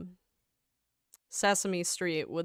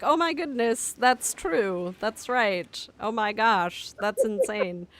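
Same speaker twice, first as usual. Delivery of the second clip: excited; 2 semitones higher, 6 dB louder than usual. Retold or imitated. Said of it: "you'll be like".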